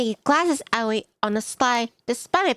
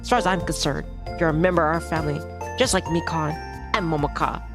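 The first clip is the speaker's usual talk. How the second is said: a slightly lowered fatherly voice; lightly voiced welcoming dad; 4 semitones lower than usual. Host dad welcoming his friend's child as family, lightly reassuring.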